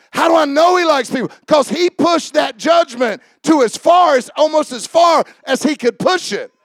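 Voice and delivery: fervent sermon delivery; preaching. Acted. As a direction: preach it out to the congregation.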